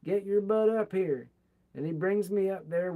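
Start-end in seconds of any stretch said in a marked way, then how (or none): 0.0-1.3 loud, higher call across a crowd; retold yell calling someone up from the back of the line. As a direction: shout to him from the front of the line. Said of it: "Jim gets up and yells".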